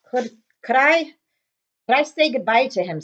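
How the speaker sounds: slow, choked big man; holding back tears, stumbling; tearful Hagrid. Acted. Hagrid asks to say goodbye, choked up.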